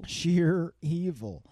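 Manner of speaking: slow, drawn-out ominous words; ominous villain. Pretend. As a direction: say it like a menacing villain. Echoed dramatically, slow.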